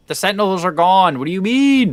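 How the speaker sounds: high loud disbelief; shocked and loud. Real, not acted. Shocked sentinels gone.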